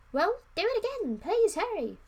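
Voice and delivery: high, loud urgent demand; overdone plea. Acted. Prince urging the wizard, high and loud. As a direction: push it hard, too eager. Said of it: "no, that wasn't".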